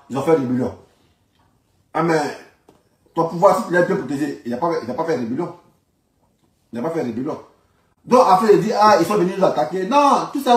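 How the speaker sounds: normal talking voice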